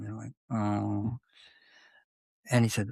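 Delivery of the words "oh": groan. Retold or imitated. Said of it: "everybody kind of groan".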